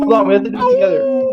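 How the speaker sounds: squeaky rushed voice; high, hurried and excited; high and fast. Pretend. Rushing the group into sync.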